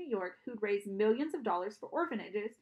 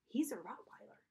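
stunned; 7 dB quieter than usual. A narrator's reading. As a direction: say it in dumbstruck disbelief. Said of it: "My jaw hung open".

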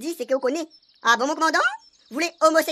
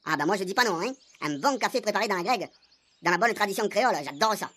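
pompous commandant; 6 semitones lower than usual. Acted.

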